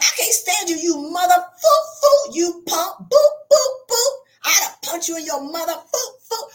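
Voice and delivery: comic mock tirade with boops; inner rage. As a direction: vent the hidden fury, hammed up. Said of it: "in your head, you be like".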